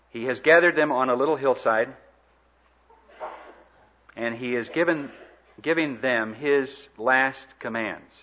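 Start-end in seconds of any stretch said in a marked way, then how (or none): 5.6-8.1 slow, deliberate weight on "commands"; measured stress leading up to "commands"; emphasis on commands. Real, not acted. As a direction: space out the words, landing firmly on "commands". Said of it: "I emphasize the word commands".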